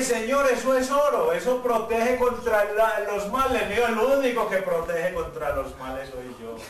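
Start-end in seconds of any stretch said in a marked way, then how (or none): 0.0-3.7 raised-pitch objection to the Lord; protesting. Retold or imitated. Protesta ante la orden divina. 3.9-6.6 measured, authoritative reply; divine authority. Retold or imitated. Dios responde con autoridad.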